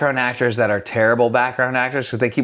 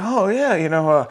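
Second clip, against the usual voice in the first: put-on creepy older guy; 6 semitones higher than usual. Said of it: "He's like".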